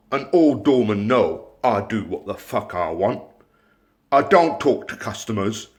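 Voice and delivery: lightly put-on Bristol swagger; Bristol accent. Mocking the late doorman, in a light Bristol accent. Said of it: "And he said this in a fucking Bristol accent".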